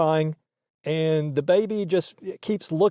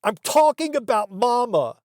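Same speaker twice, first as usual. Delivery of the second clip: mild snap; 6 semitones higher than usual. Retold or imitated. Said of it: "she kinda snapped".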